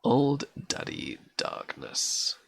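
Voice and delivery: put-on Old said as Scots auld, broad vowel. Shown as a demonstration. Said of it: "And that's A U L D. Not old".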